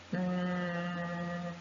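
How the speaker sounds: "Mm" as a humming ng through the nose; ng sound. Shown as a demonstration. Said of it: "It's like this".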